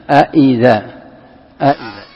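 أإذا with the second hamza clearly separated; second hamza sounded. Shown as a demonstration. Teacher pointing out the second hamza, أإذا pronounced in parts. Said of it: "الهمزة الثانية".

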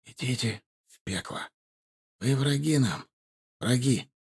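soft, strained words forced out; barely able to get it out; speaking with effort. Acted. Beaten son defying captors, soft and strained. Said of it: "Он с трудом разлепил губы".

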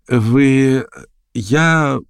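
halting, breaking with happiness; babbling with joy. Acted. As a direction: stammer out of sheer joy. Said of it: "лепетал он ... обрывавшимся от радости голосом". (лепечет срывающимся от радости голосом)

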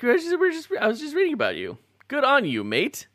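high-pitched, badly faked Australian accent. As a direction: attempt a hammy Australian accent. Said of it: "as good as I can do with the accent".

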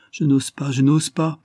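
a touch of desperate fear; frightened refusal. Acted. Daughter dares not say more.

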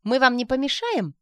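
high, loud pushy insistence. Acted. Sonechka pushing herself onto the trip, insistent. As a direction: push yourself in eagerly. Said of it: "настырно набивалась она".

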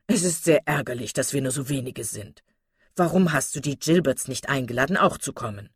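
lightly voiced gentleman, a touch put out; disgruntled husband. Sir John asking his wife about the missing guests, mildly vexed. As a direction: mildly reproach your wife.

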